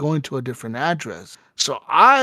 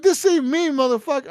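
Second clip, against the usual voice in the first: retold angry retort; 11 semitones higher than usual. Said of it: "I'm like".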